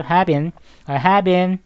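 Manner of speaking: "have been" repeated as a joined "hae-bin"; linked pronunciation. Shown as a demonstration. Teacher drilling students by repetition, "have been" linked as "hae-bin". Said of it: "이렇게 읽으시면 돼요".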